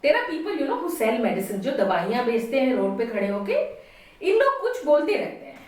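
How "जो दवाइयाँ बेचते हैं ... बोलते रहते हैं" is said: very fast rush; fast speaking. Shown as a demonstration. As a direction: rattle it off very fast. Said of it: "demonstration on fast speaking".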